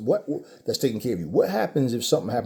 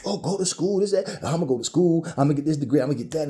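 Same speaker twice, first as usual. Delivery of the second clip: higher, sing-song naive voice; mock naive optimist; 3 semitones higher, faster than usual. Mocking a naive student's school plans, higher and light. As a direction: mimic someone who thinks school is easy. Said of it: "people make you think it's just a cakewalk".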